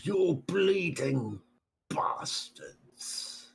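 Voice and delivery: slow, fading to a whisper; whispered curse. Acted. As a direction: hiss the insult out.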